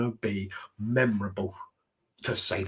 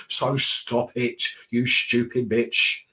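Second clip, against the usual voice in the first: louder, slow, scolding; slow it down and tell her off; angry scolding; 5 dB louder, slower than usual. Real, not acted. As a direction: spit it out slow and loud. Ranting at a wrestler.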